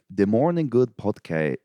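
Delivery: slow, deliberate put-on Chinese accent; mock Chinese accent. Shown as a demonstration. Retrying the Chinese accent after a miss, slow. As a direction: spell it out in a shaky Chinese accent. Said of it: "A Chinese".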